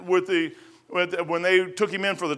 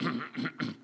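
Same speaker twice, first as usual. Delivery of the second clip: rooster clearing throat; 3 semitones lower, 14 dB quieter than usual. Retold or imitated. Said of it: "you could hear the cock over here go".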